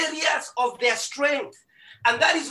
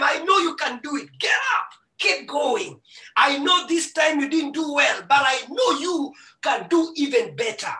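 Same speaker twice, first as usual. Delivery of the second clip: pitched-up pleading push with a near-crying edge; urgent encouragement. Pretend. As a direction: urge a fallen child to get back up. Father urging fallen child on.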